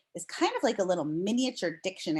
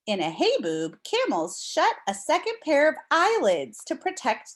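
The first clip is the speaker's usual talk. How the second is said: clear, expressive read-aloud voice; reading to children; 3 dB louder than usual. Acted. Teacher reading a storm book to her class, storybook read-aloud.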